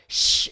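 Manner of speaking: loud retold shushing; imitated loud "shh"; sharp shush. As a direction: shush someone forcefully. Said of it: "the lady was like".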